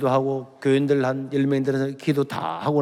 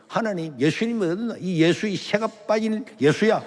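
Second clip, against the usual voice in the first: higher-pitched mock tirade of a cursing mother; retold cursing; 4 semitones higher than usual. Mother cursing Jesus as son leaves for church, retold cursing. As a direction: imitate a mother railing at God, without shouting. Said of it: "막 욕을 하는 거예요".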